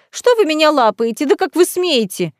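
high, outraged protest; indignant outburst. A narrator's reading. Lady scolding the viscount for groping her. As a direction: scold him, scandalised. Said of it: "взвизгнула администраторша".

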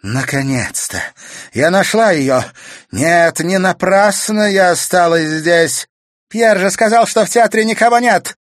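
loud, high, triumphant outburst; ecstatic. A narrator's reading. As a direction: exult over the found machine. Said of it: "Графиня восторженно ахнула".

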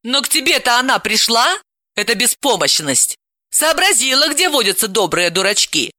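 mock his naivety; sarcastic. Aunt mocks.

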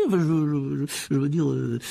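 flustered backtracking; stammering. Acted. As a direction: stumble over the words, caught out. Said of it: "balbutia-t-il". (balbutier, pris en faute)

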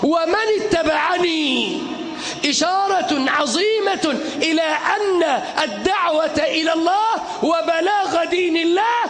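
fiery shouted sermon; soapbox orator. Acted. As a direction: preach it with full force to a crowd.

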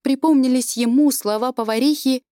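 usual speaking voice

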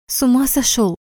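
angry hiss. A narrator's reading. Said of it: "зло прошипела я".

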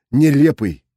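plain reading voice

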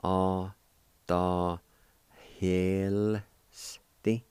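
"A, ta, hel, sti" spoken as separate syllables with a pause after each; teacher sounds out the word for students; syllable drill. Shown as a demonstration. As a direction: model "A, ta, hel, sti" one syllable at a time. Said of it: "it's pronounced like this".

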